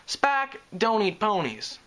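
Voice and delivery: slow, even and calm. Acted. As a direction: settle them down evenly. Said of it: "she said calmly".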